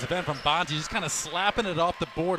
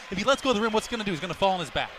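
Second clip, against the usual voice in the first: heated argument; 3 semitones higher, 3 dB louder, much faster than usual. Real, not acted. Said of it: "I'm so fired up".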